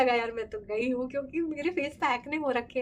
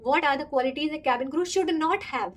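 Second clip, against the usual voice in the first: slow, deliberate question; interviewer question; 3 semitones higher, much slower than usual. Retold or imitated. Retelling the interviewer's tricky question, slow and formal. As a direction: spell out each word like a formal interviewer.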